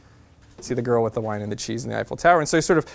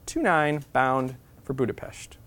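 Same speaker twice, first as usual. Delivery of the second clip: slow, drawn-out mock announcement; conductor announcement; slower than usual. The conductor announcing the train to Budapest, slow and formal. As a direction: imitate the train conductor over the speaker. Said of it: "And the conductor says".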